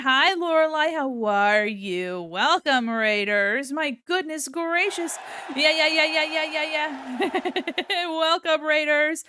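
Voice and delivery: loud, giddy cheering greeting; excited welcome. Real, not acted. Streamer welcoming raiders to the stream, excited welcome. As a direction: whoop the guests in at high energy.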